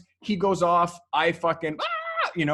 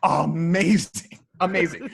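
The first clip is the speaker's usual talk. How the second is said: amused amazing; 4 dB louder than usual. Retold or imitated. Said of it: "I'm like".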